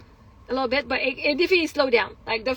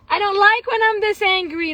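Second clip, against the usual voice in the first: higher, louder emphatic protest; retold outburst; 6 semitones higher, 7 dB louder than usual. Woman voicing dislike of her anger, retold outburst. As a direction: burst out with frustrated self-reproach.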